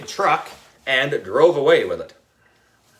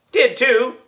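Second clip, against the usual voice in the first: mock retort; 10 semitones higher than usual. A narrator's reading. Kids quarrelling in class.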